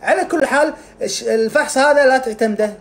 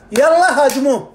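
attack order; 3 semitones higher, 4 dB louder than usual. Acted. Immune cells ordered to attack.

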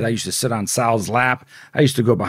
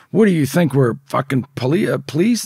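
higher-pitched, mildly indignant retort; mock indignation; 4 semitones higher than usual. Dealers challenge the man who refused them, mock indignant. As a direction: act out an affronted challenge, lightly.

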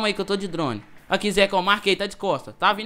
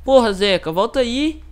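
frustrated shout; 5 semitones higher, 8 dB louder, slower than usual. Real, not acted. Teammate disconnected from the game.

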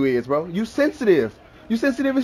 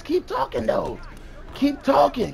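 taunting shout; 8 semitones higher, 5 dB quieter than usual. Real, not acted. Taunting opponent over game chat.

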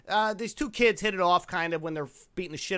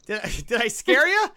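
put-on higher, louder take on an Irish accent; mock Irish accent; 5 semitones higher, 7 dB louder than usual. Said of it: "who sports an Irish accent".

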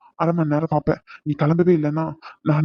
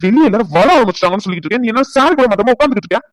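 high, loud scolding; angry shout; 5 semitones higher, 5 dB louder than usual. Acted. Husband yelling that guests are arriving. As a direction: yell at her in frustration.

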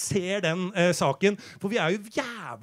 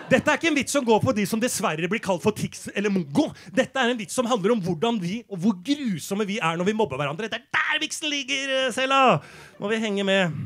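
raised, higher voice building to a shout; indignant defence; 4 semitones higher, 3 dB louder than usual. Acted. Comedian defending the joke to Sela, indignant and building to shouting. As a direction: argue it hotly, climaxing in a yell.

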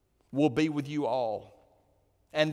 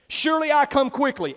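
proclaiming; 8 semitones higher, 6 dB louder, faster than usual. Acted. Jesus' words proclaimed.

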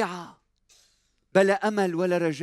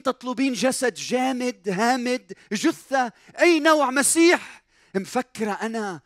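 higher, pointed rhetorical challenge; mock indignation; 6 semitones higher than usual. Preacher voicing Jesus challenging Mary's expectations, pointed. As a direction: needle her with the question.

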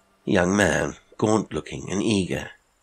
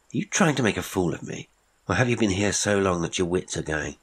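higher, quicker, disbelieving questions; incredulous challenge; 3 semitones higher than usual. Acted. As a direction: press him, sure he's lying. Patterson challenges Heywood.

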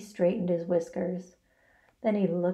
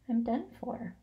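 weak reply; 3 semitones higher, 7 dB quieter than usual. A narrator's reading. Dying spider replies weakly.

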